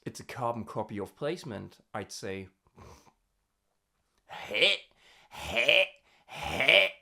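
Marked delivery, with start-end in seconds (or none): 4.3-6.9 bright twangy heh, kept out of the nose; tonal twang, not nasal. Shown as a demonstration. Coach demos tonal twang on heh, not in the nose. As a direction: buzz the heh forward without nasality. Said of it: "Not in the nose".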